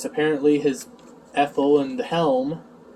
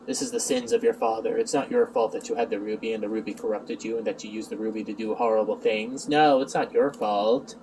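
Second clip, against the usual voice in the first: low, soft figure voice; forgiving figure; 6 semitones lower, 4 dB quieter than usual. Retold or imitated. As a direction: absolve them in a hushed, lowered voice. Acted absolution in a story.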